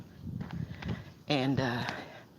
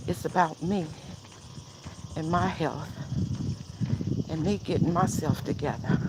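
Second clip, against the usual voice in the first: scolding herself. Retold or imitated. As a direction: tell yourself off like a strict friend. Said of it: "I said to myself".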